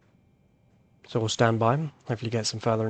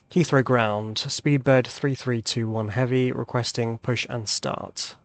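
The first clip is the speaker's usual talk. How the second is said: radio call; slower than usual. Shown as a demonstration. Pilot radio call to ground.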